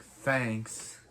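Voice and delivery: mildly sarcastic retold thanks. Retelling Wells' reply to Cisco, mildly sarcastic. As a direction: give an understated, dry thank-you.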